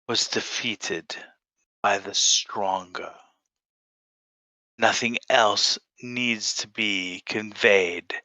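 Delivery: cold, flat, unbothered delivery; flatly. Acted. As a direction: state it without feeling. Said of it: "tell her flatly".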